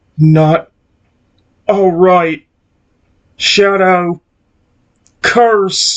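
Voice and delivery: very slow, rough and near-desperate voice. Reading a cursed creature's reply aloud: rough, almost desperate voice. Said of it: "Its voice is rough, yet almost desperate".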